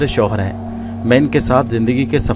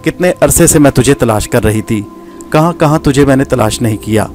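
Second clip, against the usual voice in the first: raised, bitter tirade against a traitor; furious accusation. Acted. Gohar accusing Nadir of killing her father, in a furious tirade. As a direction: pour out years of hatred at him. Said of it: "نفرت اور قہر کی بجلیاں برس رہی تھیں".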